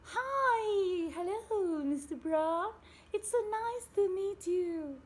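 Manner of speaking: booming cheerful hello, pitched high; loud voice of a noisy man; loud high greeting. A narrator's reading. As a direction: call out a big hearty welcome.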